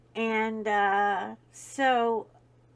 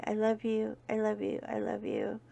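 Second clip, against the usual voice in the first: serious and tender. Real, not acted. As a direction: speak gently to those suffering. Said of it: "take one serious second and say".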